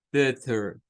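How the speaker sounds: standard "better" with clear T and final er; standard pronunciation. Shown as a demonstration. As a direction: neutral "better", T clear, R at the end. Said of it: "Pronunciación estándar". (better estándar con T clara y R final)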